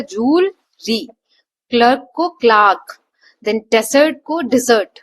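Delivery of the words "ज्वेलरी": ज्वेलरी said slowly and clearly as jewel-ree; correct pronunciation. Shown as a demonstration. Teacher models ज्वेलरी for students, slow and careful. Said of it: "इसे कैसे pronounce किया जाता है?".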